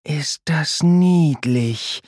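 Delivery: slow, high and tender, full of love; lovingly whispered. A narrator's reading. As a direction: coo over the calf. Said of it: "flüstert Lea verliebt".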